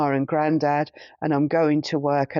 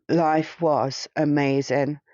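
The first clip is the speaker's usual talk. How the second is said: slow, wistful repeat, rising at the end; slow, savoring; slower than usual. Real, not acted. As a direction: let each word of Life was amazing linger, slowly.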